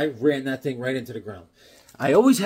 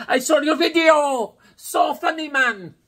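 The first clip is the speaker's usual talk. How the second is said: much higher, louder clerk voice; imitating the clerk; 12 semitones higher, 4 dB louder than usual. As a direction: chirp it like the excited clerk. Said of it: "He's like".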